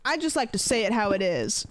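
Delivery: lightly voiced self-righteous type; a hint of smug honesty; mock blunt person. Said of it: "people that are like".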